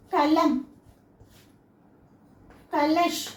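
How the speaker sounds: "కలం, కలష్" each ending on a bare consonant; "కలష్" closed on sh, "కలం" closed on m; half third letter. Shown as a demonstration. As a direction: say "కలం" and "కలష్" apart, no final vowel. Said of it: "మూడో అక్షరాన్ని మనం ఆఫే పలుకుతాం".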